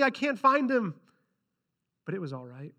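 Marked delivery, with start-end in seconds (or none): 0.0-0.9 urgent. Acted. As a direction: sound desperate to find him. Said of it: "Mary said urgently".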